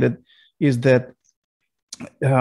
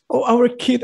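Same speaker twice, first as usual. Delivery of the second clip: hammed-up mother screaming in fright; panicked mother; 11 semitones higher than usual. Mother watches the meteor hit her kid, high mock shriek. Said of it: "I'm like".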